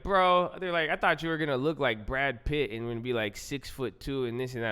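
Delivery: retold disbelief. Pledge meeting him for the first time, mock disbelief. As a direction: imitate someone let down by his looks, starting loud.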